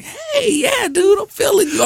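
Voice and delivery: put-on high excited girl voice; girl's voice. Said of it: "And she's like".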